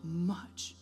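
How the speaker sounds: very slow, tender whisper; hushed, drawn-out divine whisper; whispered voice of God. Retold or imitated. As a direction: whisper it with long spaces between words. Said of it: "I heard God tell me".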